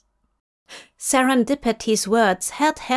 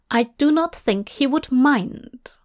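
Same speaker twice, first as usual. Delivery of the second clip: Lucienne, worried aide; 4 semitones higher than usual. Acted.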